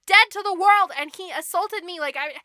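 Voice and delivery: hammed-up plea for her life; begging Sleeping Beauty. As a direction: protest innocence insistently. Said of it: "was begging for her life".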